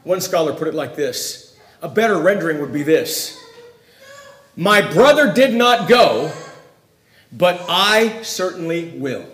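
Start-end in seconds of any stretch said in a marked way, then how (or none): 4.5-9.2 slow, self-elevating stress on "I"; slow and deliberate, weight on "I"; emphatic I. Acted. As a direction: set "I" apart in "but I certainly will". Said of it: "this is emphatic in the sentence".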